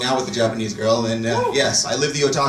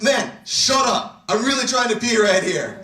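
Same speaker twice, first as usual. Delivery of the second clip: higher-pitched pleading complaint; acted exasperation; 8 semitones higher, slower than usual. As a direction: act fed up, begging him to stop. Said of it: "in this case, I'm just like".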